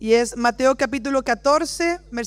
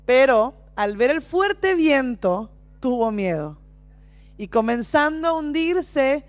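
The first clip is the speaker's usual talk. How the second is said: scripture reading; slower than usual. Acted. Reads Bible passage dramatically.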